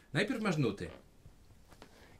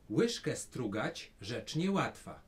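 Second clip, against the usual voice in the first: line to repeat. Shown as a demonstration. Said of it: "Powtarzaj za mną".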